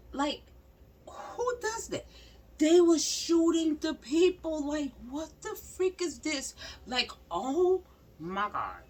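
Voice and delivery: high, loud shocked outburst; high, loud horrified disbelief; outraged disbelief. Real, not acted. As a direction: let the shock burst out high. Disbelief at police shooting crowd.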